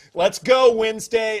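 mock cycling instructor. Imitating a spin instructor to the class, pumped-up call. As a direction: hype it up like a spin coach yelling at the class. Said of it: "cycling instructors where you tell the class".

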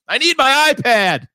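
put-on high, loud and slow, a little girl barking orders like a trucker; gruff demanding kid. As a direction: demand it like a tough trucker in a tiny voice. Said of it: "like a fucking trucker".

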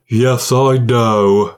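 very slow, tired sigh of a reply; weary. Shown as a demonstration. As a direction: drag it out like you're worn out. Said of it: "Oh, I wasn't weary".

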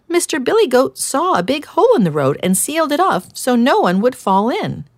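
timid hedgehog offering an idea; gentle hedgehog. Acted. Hedgehog explains.

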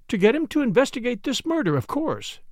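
sharp. A narrator's reading. Caroline answering her brother about investigating the murder, sharply. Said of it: "said Caroline sharply".

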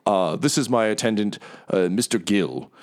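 smooth, grand, apologetic host; oil every word with charm; lightly voiced theatrical merchant; Mahadi, gregarious tiger. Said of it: "he says".

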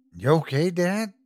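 lightly voiced worried little boy; gently checking on his dad; concerned kid voice. A narrator's reading. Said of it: "adorably concerned fashion".

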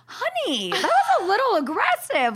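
high-pitched, tiptoeing reproach; retold high, delicate chiding; gentle mock scolding. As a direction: lift the voice high, as if softening a criticism. Retells gently scolding her partner.

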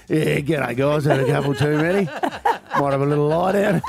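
lightly voiced boozy bird; laid-back Aussie bloke as magpie; magpie impersonation. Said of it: "your magpie impersonation".

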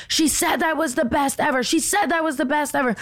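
high-pitched looping wail at normal volume; mock screaming. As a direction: mimic a woman screeching the same complaint on repeat. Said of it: "screaming over and over again".

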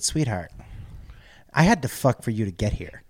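low, soft, deadpan reassurance; tender grandmotherly. Retold or imitated. Grandmother calming nervous grandchild backstage, gently matter-of-fact.

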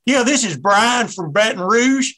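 hammed-up fan phoning a sports show; a lightly voiced caller from Baton Rouge introducing himself; mock radio caller. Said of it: "a little too over the top".

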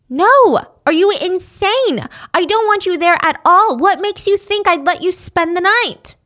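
high, loud outraged shout from grandma; grandma yelling no. Retold or imitated. Grandma yelling at Wendy over the phone, outraged shout. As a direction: bark a furious refusal as the grandmother.

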